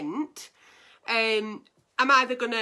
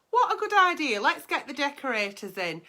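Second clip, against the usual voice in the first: high sarcastic repeat; mock enthusiasm, pitched up; 3 semitones higher than usual. Shown as a demonstration.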